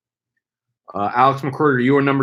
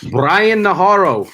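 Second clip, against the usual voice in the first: announcer call; 6 semitones higher, 6 dB louder, slower than usual. Acted. Calls out drafted name.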